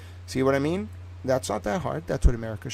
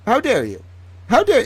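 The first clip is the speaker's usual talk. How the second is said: retold outrage; 4 dB louder than usual. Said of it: "I was pissed".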